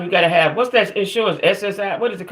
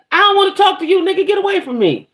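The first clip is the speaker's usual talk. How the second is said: retold angry brush-off; 14 semitones higher than usual. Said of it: "This nigga follow me out".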